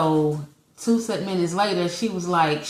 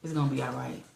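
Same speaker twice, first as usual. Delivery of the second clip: reassuring tone; 5 semitones lower, 8 dB quieter, faster than usual. Retold or imitated. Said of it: "but his tone at that time was like".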